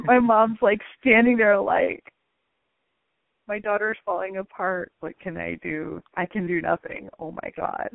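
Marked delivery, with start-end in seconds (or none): 3.5-7.9 mom despairing. Retold or imitated. Mom's helpless thoughts voiced.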